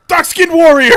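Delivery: loud, high hammed-up yell; mock battle cry. Kelly's pretend response video, hammed-up shouted cry. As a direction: belt it out like a silly war cry. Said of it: "Kelly needs to be like".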